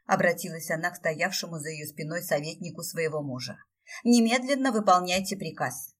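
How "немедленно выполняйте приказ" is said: stern command. A narrator's reading. Stefi commands her adviser.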